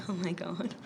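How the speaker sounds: breathy whispered oh-my-God; hushed awe. Retold or imitated. Awed aside in a retold reaction.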